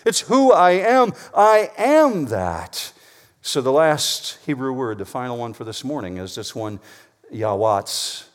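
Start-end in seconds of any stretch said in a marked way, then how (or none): 0.1-2.9 loud, higher, proclaiming as God; God speaking. Retold or imitated. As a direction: declare it with divine certainty. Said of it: "He means".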